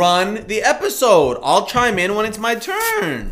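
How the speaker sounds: talking through tape over the mouth; muffled behind gaff tape; mouth taped shut. Real, not acted. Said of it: "can't do it with tape on your mouth".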